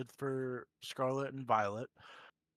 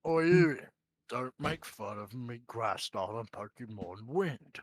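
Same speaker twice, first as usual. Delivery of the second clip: butcher voice; 3 semitones lower, 3 dB louder than usual. Acted. Answers back in the butcher voice.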